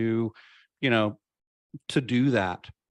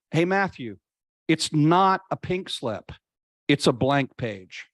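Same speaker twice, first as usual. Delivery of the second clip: God's voice with a touch of the American South; light Southern accent. Retold or imitated. Guest voicing God's words to him in a light Southern accent. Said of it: "God speaks in a Southern accent".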